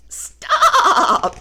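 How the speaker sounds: high shouted stop; loud command. Acted. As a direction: halt them firmly. Woolly intervenes.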